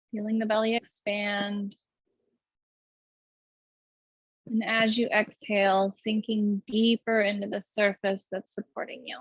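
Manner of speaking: even, unhurried meditation guidance; guided meditation. Acted. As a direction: lead the breath calmly, with long pauses.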